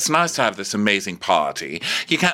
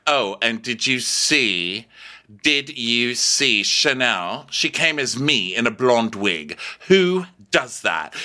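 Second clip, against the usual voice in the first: imitating Caroline; 3 semitones higher, slower than usual. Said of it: "So Caroline's like".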